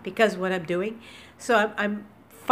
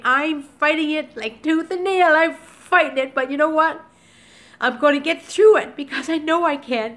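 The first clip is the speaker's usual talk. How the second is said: higher and louder, impassioned; fired up with fighting spirit; passionate; 6 semitones higher, 5 dB louder than usual. Real, not acted. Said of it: "So I'm talking a little passionate".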